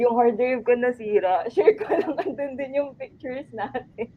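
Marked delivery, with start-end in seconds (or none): 1.5-4.1 laughing. Real, not acted. Laughs about broken hard drive.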